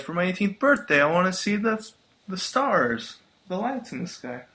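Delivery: sweet, sing-song princess lilt; cartoon princess. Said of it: "you have got a really good Disney princess voice".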